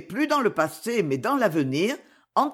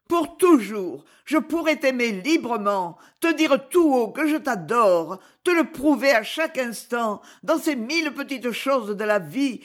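lightly voiced woman, higher, ardent plea; a hint of a lover begging to elope; 4 semitones higher than usual. Clémence's voice in the story. (amante ardente, voix plus aiguë)

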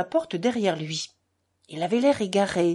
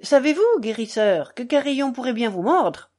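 high, louder taunt, mildly trembling; 5 semitones higher, 6 dB louder than usual. A narrator's reading. Kolia threatens the doctor with his dog, voice trembling. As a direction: throw out a threat in an agitated voice. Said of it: "jeta d'une voix tremblante Kolia".

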